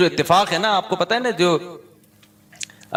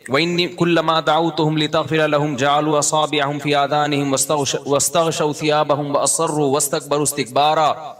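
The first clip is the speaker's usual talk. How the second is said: Quranic recitation; faster than usual. Acted. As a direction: chant the verses in measured tajweed. Quran recitation within sermon.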